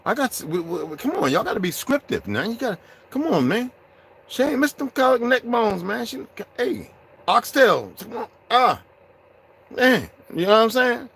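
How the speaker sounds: very high, excited hammed-up ranting; squealing mock excitement; high hype voice. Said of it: "I said".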